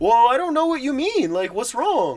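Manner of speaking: very high, loud put-on voice. Imitating smart people who get called out and start talking in a higher tone. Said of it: "they start talking in a higher tone".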